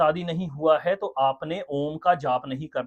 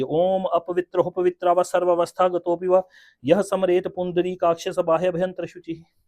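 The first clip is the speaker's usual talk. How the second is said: recited mantra. Shown as a demonstration. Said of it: "देखिए अब किस प्रकार से इसको किया जाता है".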